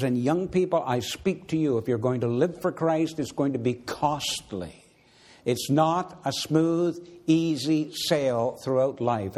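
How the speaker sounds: preaching. Acted.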